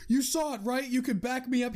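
put-on a desperate kid asking for backup; panicky kid. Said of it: "he's like".

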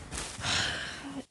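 imitated weary teacher's sigh; exasperated sigh. Teachers reacting to cloud-gazing kids, exasperated sigh. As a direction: heave a soft, exasperated sigh.

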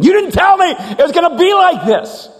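high, loud accusing outburst; acted indignant complaint; angry protest. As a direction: cry out at God, betrayed. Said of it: "you became angry with God".

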